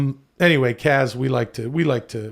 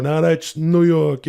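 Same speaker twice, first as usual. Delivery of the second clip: catchphrase delivery; 2 semitones higher, slower than usual. Pretend. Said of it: "I would make these videos".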